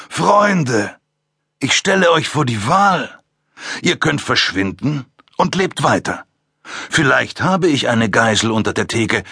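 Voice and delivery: höher, überheblich predigend. Acted. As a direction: spiel den überlegenen Philosophen. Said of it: "in überheblichem Tonfall". (überheblicher Tonfall, leicht höher)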